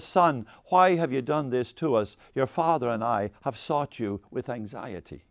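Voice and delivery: slow, composed mock-formal mother; cool as a cucumber. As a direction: read it with unruffled, measured calm. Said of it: "Mary walks in cool as a cucumber".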